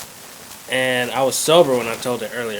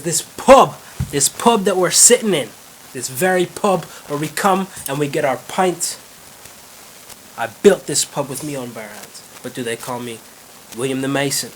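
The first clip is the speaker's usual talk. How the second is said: put-on Irish accent; 3 semitones higher, 5 dB louder than usual. William boasts about the pub he built, Irish accent. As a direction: build up the Irishman's boast, then settle, in accent. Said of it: "there's two Irish guys".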